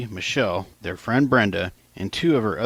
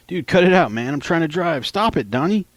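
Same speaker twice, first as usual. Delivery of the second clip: higher, louder, desperate plea; begging; 9 semitones higher, 4 dB louder than usual. Retold or imitated. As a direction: beg them to stop while driving. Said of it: "Hector begged".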